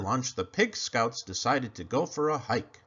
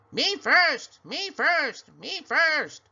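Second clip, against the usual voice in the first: mocking the pig; 13 semitones higher, 6 dB louder, slower than usual. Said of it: "creature mocks the pig".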